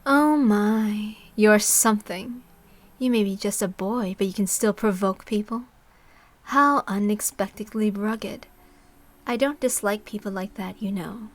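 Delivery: loud, slow, amused and provoking; teasing older woman. Acted. Takano teasing the narrator boy, slow and loud. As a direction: toy with the boy, savouring each word.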